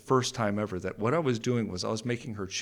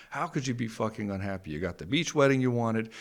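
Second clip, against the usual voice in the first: rising angry outburst, building louder; fed-up husband ranting, getting louder and higher; 4 semitones higher, 4 dB louder than usual. Retold or imitated. Venting at his unhappy wife, building anger.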